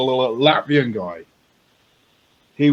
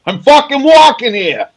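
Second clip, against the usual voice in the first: high, loud, drawn-out yell; mock yell; 11 dB louder than usual. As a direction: holler it like an indignant pedestrian. Bursts out with mock quote.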